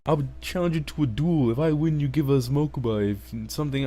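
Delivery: lightly voiced high challenger; mock high voice. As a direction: pitch up like a cartoon villain.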